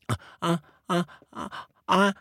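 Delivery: put-on baby crocodile backing away, stammering; scared little crocodile. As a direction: stutter it like a nervous little kid. Frightened baby crocodile refuses.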